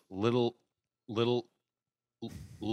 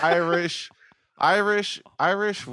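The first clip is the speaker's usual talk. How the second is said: frustrated repeating; 6 semitones higher, slower than usual. Real, not acted. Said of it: "You can't say it".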